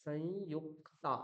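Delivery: সংযুক্তা said very slowly, syllable by syllable; ধীরে সংযুক্তা; slow demo of সংযুক্তা. Shown as a demonstration. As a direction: spell out সংযুক্তা by ear. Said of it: "এই নামটাই যদি আপনি দেখেন".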